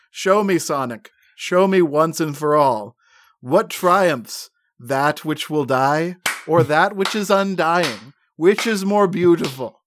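put-on grandiose drunken challenge, pitch lifted; drunk villain. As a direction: declaim it like a wine-soaked villain. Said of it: "he's so drunk. He's wasted".

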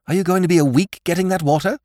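high, urgent exasperated question; exasperated demand for water; impatient. A narrator's reading. Jimmy snaps at slow lordship.

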